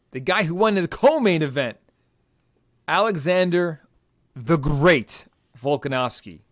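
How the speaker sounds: booming fight-night announcer build-up; ring announcer voice. Acted. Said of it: "I started slipping into my ring announcer voice there".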